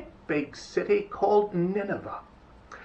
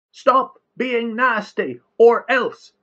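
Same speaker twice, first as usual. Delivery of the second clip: 'Stop being nasty' high and loud; yell; 9 semitones higher, 7 dB louder, slower than usual. A narrator's reading. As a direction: yell 'or else' as a threat. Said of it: "yelled Jonah".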